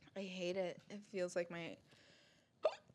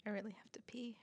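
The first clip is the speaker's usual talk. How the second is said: soft confiding whisper; 4 semitones higher, 9 dB quieter, faster than usual. Real, not acted. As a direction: whisper it to the co-host. Whispered confession.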